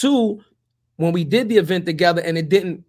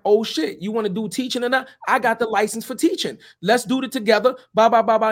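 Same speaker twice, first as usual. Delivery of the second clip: eager pitch; 5 semitones higher, 4 dB louder than usual. Retold or imitated. Retelling excited pitch again.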